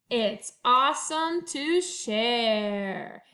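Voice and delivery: lively picture-book read-aloud; reading to children. A narrator's reading. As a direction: read it to first graders with bounce. Teacher reads picture book aloud.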